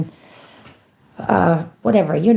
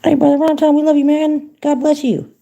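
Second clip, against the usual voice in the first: hyped shout-out; 7 semitones higher, 4 dB louder than usual. Real, not acted. Shouting love to a viewer.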